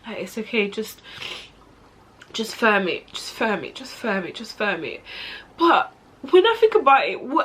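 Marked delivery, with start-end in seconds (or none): 0.1-5.0 resigned self-talk. Retold or imitated. Inner self-talk, holding it in.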